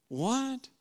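the disbelief spikes up high; shocked disbelief. Retold or imitated. Disciples can't believe the story, a high shocked what. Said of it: "the other disciples are like".

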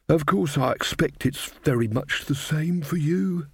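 lightly voiced cheerful old lady; chatty old witch. A narrator's reading. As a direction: hostess rambling at her guest. Desiderata reminisces.

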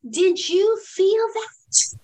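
un toque de coach que pregunta con calma; gentle coaching question. Retold or imitated. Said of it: "I said".

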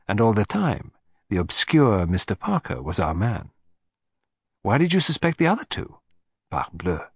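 put-on lightly accented sleuth, conversational; a hint of a foreign detective holding forth; musing detective. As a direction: reason it through for a companion. Narrator voices the detective.

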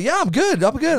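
mock reassurance. Drunk rider to worried strangers after crashing, high mock cheer. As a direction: brush it off in a high put-on voice. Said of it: "I'm like, I'm like".

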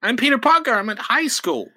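high gee-whiz voice; hammed-up wholesome nerd; nerdy Spider-Man. Spider-Man thanking the druid, high and nerdy. Voicing Peter Parker.

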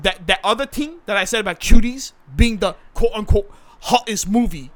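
defensive South London man, pleading his case; put-on South London accent; South London actor character.

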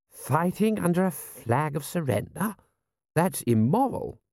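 high-pitched, indignant lord. Acted. Lord to the prince about surrender flag, indignant. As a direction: object in a high, affronted lordly voice.

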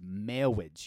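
slow, drawn-out mangled marriage; Princess Bride officiant. Acted. Riffing on the movie to a cohost, slow officiant voice. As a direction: stretch it like the wedding officiant. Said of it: "The Princess Bride".

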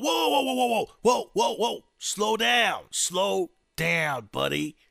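loud, high shouted warning; Secret Service halting. Acted. Secret Service stopping the new president at the door, loud shout. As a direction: shout to stop someone in their tracks. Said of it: "Secret Service runs up to the door".

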